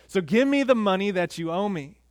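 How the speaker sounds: loud threatening demand; angry demand. Acted. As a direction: squeeze the debt out of him. Servant still demanding money.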